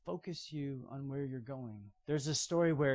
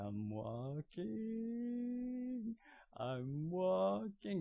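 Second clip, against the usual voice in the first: amazed Peter; 5 semitones higher, 6 dB quieter, much slower than usual. Retold or imitated. Peter amazed stepping on water.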